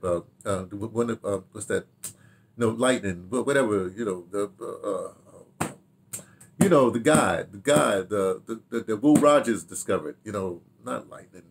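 ordinary talk

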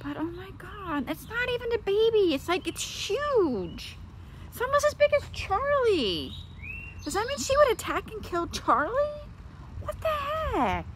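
very high, wailing incredulity; real distressed outburst, pitch soaring; upset disbelief. Real, not acted. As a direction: squeal in appalled dismay. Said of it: "I'm truly upset".

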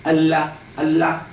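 Allah set apart, each one distinct; isolated word. Shown as a demonstration. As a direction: say Allah clearly on its own, with a held L. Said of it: "You hear the word Allah?".

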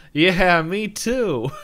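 loud, high burst of mock eagerness; over-eager agreement. Boy blurting agreement to his crush, over-eager. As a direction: agree far too loudly and too high.

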